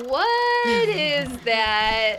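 slow, drawn-out puzzlement; puzzled. Retold or imitated. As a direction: drag out the confused question. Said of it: "I could feel you being like".

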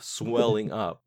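slow, drawn-out fake technobabble; mock jargon. Joining the jargon riff, slow and drawn out. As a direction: stretch it out gravely.

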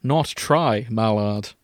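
firm, measured insistence; stern correction. Acted. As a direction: correct him firmly, as his mentor. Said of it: "looked stern and disappointed".

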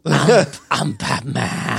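low, gravelly-free growled Batman impression.

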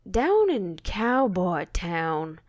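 slow, drawn-out lightly voiced cowboy. Host trying her best cowboy voice, slow drawl-free. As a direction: drag it out like an old cowboy. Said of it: "our best cowboy voices".

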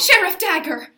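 sultry, breathy seductress call; femme fatale voice. Acted. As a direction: purr his name like a femme fatale. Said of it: "what have I told you about using your femme fatale voice".

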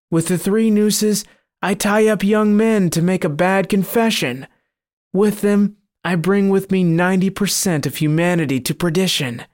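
a gloating demon boasting of its snares; sinister monster. Acted. Monster voiced in story.

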